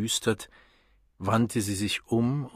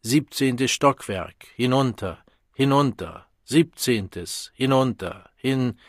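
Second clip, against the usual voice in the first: louder, higher, slow clipped commands; imperious loudspeaker; 3 semitones higher, 5 dB louder than usual. Acted. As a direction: bark floor orders like an intercom. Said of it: "sehr leise und sehr gebieterisch".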